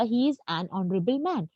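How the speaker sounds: slow, deliberate example sentence; slow example read. Shown as a demonstration. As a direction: read it out carefully for the class. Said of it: "teacher repeats example sentence". (धीमे स्वर में उदाहरण दोहराना)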